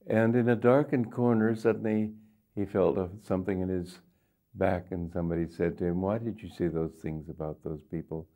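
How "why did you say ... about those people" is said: low, quiet menacing growl of a hidden attacker; menacing threat. Retold or imitated. Gunman threatens the guru in a dark corner, low menace. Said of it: "in a very menacing tone of voice".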